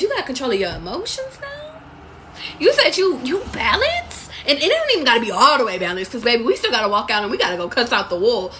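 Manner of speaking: loud, high, near-crying voice; emotional high outburst. Real, not acted. Reader tells viewers they're being tested, breaking into a loud, high cry.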